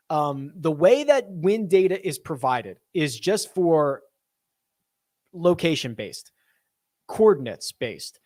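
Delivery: measured rant, each point spelled out; emphatic rant. Real, not acted. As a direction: lay down each point firmly and deliberately. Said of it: "the wind rant".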